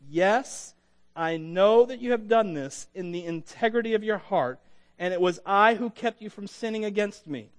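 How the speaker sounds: measured, solemn Bible reading with voiced speakers; dramatic scripture read, God's lines weighty. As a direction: read the passage like a preacher reading the Word. Reads scripture aloud.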